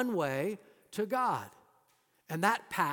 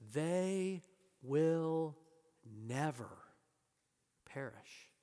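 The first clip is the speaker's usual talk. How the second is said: hushed repeat; 3 semitones lower, 6 dB quieter, much slower than usual. Acted. Quote repeated, softly, with pauses.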